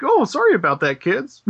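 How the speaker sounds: mock apology. Puppeteer apologises to nearly crushed children, mock sheepish. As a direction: toss off a pretend sorry.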